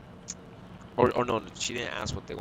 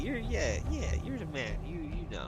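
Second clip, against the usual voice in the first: much higher, imitating a buzzed woman gushing; mock tipsy lady; 7 semitones higher, 4 dB quieter than usual. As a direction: ham up her tipsy praise, pitched up. Mocking tipsy customer praising him.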